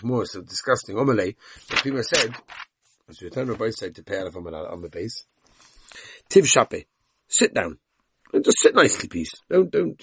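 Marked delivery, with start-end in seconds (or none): 6.3-10.0 raised voice to settle the room; hushing the class. Real, not acted. Teacher hushing class mid-story.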